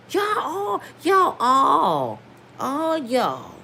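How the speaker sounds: y'all all, cried out in frustration; half-shouted plea at the audience; crying out at everyone; exasperated cry. Real, not acted.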